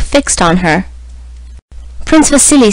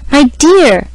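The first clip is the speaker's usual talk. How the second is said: imploring; 4 semitones higher than usual. A narrator's reading. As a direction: beg him gently. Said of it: "exclaimed his mother imploringly".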